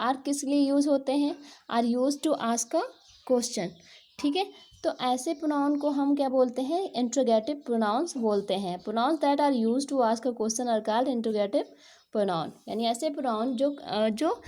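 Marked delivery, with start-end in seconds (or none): 1.7-3.7 slow, deliberate reading of an English definition; slow textbook reading. Shown as a demonstration. Teacher reading a definition slowly to the class. 8.8-12.5 slow, deliberate reading of an English definition; slow textbook reading. Shown as a demonstration. Teacher reading a definition slowly to the class.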